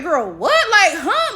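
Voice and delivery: acted disbelief jumping up high; baffled, disbelieving double take; incredulous. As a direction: react in mock shock, pitch leaping on "huh". Friends' shock at never having grits.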